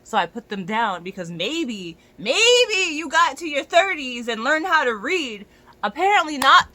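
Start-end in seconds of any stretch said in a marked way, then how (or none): 2.2-6.7 angry sarcasm. Real, not acted. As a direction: drag out the insult with contempt. Sarcastic rant about ignored pronouns.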